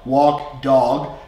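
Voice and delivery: coffee, walk, water with long aw vowels; broad North Jersey vowels; New Jersey accent. Shown as a demonstration. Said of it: "North Jersey, New York accent".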